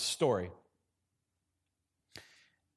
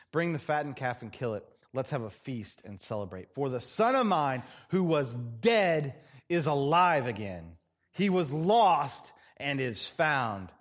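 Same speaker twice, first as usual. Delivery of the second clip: scripture reading. Acted. Reads the father's joyful command.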